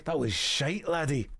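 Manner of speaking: imitated Scottish heckler; mock Scottish. Imagined Scottish viewer judging the impression, mock Scottish accent. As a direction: dismiss it with a put-on Scottish burr. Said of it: "A Scottish person looking at it and going".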